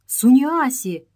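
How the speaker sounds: slow, high startled cry; surprised exclamation. Acted. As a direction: call the name in shock. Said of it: "воскликнула она".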